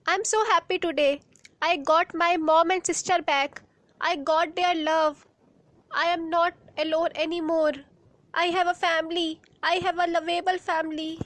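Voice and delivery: fast, bubbling joy; quick joyful gush about her family; happy excitement. Acted. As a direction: rush the words out with delight. Girl rejoices at regaining family.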